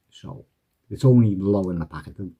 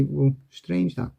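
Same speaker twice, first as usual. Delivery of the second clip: mock-amazed patter; 6 semitones higher than usual. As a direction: play up the surprise for the spectator. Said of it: "You say".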